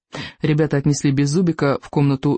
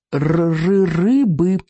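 stammering little dragon; much slower than usual. Acted.

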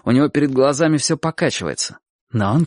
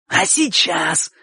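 slow, higher, husky jab; irritated wheeze; 5 semitones higher, much slower than usual. A narrator's reading. Bocho presses Chik about now, irritated wheeze. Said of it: "раздражённо просипел Бочо".

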